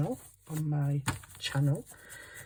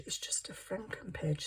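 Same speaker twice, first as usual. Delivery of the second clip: a whispered aside; barely voiced reassurance to herself; 10 dB quieter than usual. Real, not acted. Crafter whispering to herself about her messy page.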